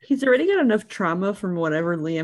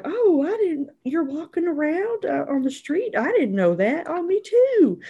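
high, flustered, caught-out voice; flustered Imogen; 11 semitones higher than usual. Retold or imitated. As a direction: stammer like you got caught. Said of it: "She's like".

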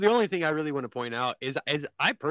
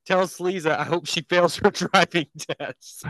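all caps text; 4 semitones higher, 4 dB louder, slower than usual. Retold or imitated. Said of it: "replies in all caps".

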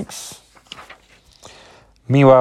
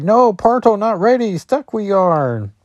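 much higher, panicky monster voice; trapped werewolf; 9 semitones higher than usual. Acted. Werewolf caught in its own portal, much higher panicked voice. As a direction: squeal it as the creature gets stuck. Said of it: "It's like".

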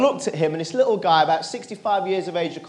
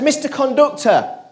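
higher, slow drawn-out call; 7 semitones higher, 4 dB louder than usual. Retold or imitated. Boy to conductor who can't hear him, calling out. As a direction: draw the words out to catch someone's attention. Boy calls again, not heard.

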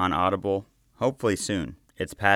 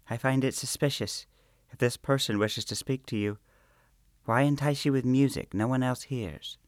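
put-on higher, anxious, pleading girl; worried young maid; 7 semitones higher than usual. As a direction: argue her doubts with rising worry. Juniper objecting uneasily.

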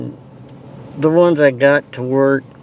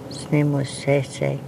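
newscaster voice; 6 dB quieter, slower than usual. Acted. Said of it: "In your best newscaster voice".

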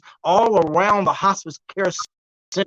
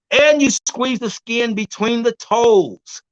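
slow demo; 3 semitones higher, slower than usual. Shown as a demonstration. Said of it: "I'm gonna do it slowly".

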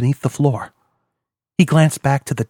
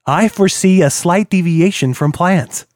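smug hacker villain; 4 semitones higher than usual. Acted. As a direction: tease them, sure of himself. Villain on screen speaks.

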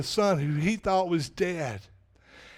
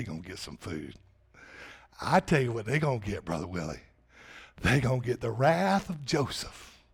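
low vengeful musing; 8 semitones lower, 6 dB quieter than usual. Retold or imitated. Preacher voices Joseph's vengeful thoughts.

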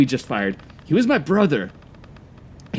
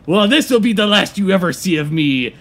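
dramatic exit; 2 semitones higher, 4 dB louder than usual. Acted.

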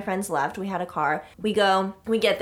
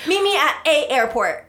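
high, loud sarcastic parody; laughing parody of a vague plan; mocking a pointless invitation; mock invite, laughing; 4 semitones higher, 4 dB louder than usual. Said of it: "That's like saying".

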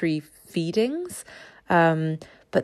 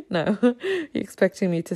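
laughing; 4 semitones higher, faster than usual. Real, not acted. Teasing listeners' expectation.

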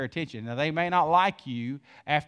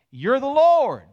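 preaching shout; 9 semitones higher, 8 dB louder than usual. Real, not acted. Preaching climax.

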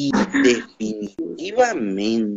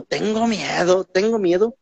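mock scared; 6 semitones higher than usual. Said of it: "dijeran en mi pueblo".

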